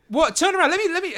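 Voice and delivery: high-pitched, urgent order; startled, high insistent voice; demanding half-elf. Acted. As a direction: order an intruder to turn round. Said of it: "She says".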